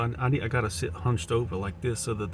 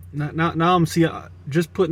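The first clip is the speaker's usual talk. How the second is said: woman voice; 5 semitones higher, 5 dB louder than usual. Pretend. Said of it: "my beautiful woman voice".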